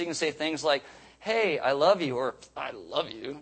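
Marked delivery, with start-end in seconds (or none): 1.2-2.2 bright greeting. Shown as a demonstration. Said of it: "you can say it two different ways". 2.6-3.4 soft and low. Shown as a demonstration. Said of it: "you can say it two different ways".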